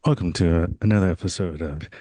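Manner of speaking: low late-night DJ African American accent; black voice. Shown as a demonstration. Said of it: "This is my black voice".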